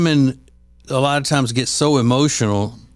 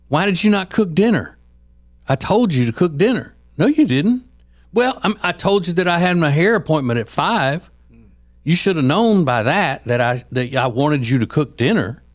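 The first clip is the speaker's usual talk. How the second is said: high-pitched mock nagging wife; hammed-up complaint about no dinner cooked; wife scolding husband over dinner, mock nag; 6 semitones higher than usual.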